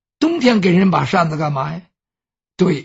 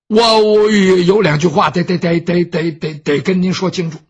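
stammering on 得, repeating it over and over; stuttering; 4 dB louder than usual. Acted. Servant Baoxing stammers out a warning to his master, stuttering. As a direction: get stuck on 得 like a nervous stammerer. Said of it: "这包兴口吃了".

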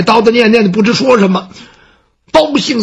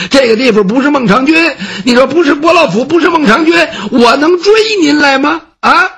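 fussy servant; 3 semitones higher than usual. Acted. Baoxing chases the scholar to bring him back, pleading.

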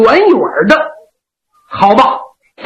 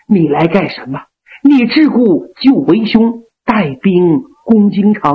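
lower, steadier voice of the elder sworn brother; Yang Liulang; 5 semitones lower than usual. Acted. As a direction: speak as the concerned elder brother, a touch lower.

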